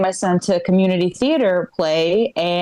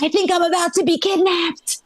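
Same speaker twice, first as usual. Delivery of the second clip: mock panic; 7 semitones higher than usual. Retelling scared call to husband.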